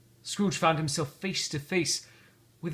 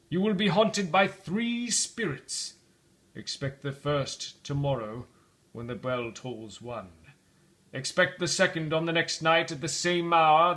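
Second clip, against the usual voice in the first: ghost voice. Acted. Ghost's long warning.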